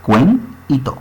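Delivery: CUEN, breve pausa, y TO; separado en sílabas. Shown as a demonstration. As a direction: say "cuen" and "to" as two separate syllables. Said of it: "sale que tengo dos sílabas". (dos sílabas sueltas: «cuen»... «y to»)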